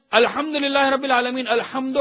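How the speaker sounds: measured Arabic recitation, slowly; prayer recitation. Acted. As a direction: recite as if praying aloud. (نماز کی قرأت، ٹھہر ٹھہر کر)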